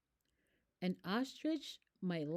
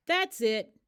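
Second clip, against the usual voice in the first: exasperated; 4 semitones higher, 8 dB louder than usual. Acted. Exasperated decision.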